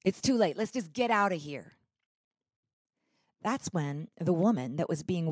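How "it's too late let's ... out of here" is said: sharp, loud impatient bark; barked order. Retold or imitated. Agitated husband barking at partner to leave. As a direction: snap at her to drop the items. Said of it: "He barked at her".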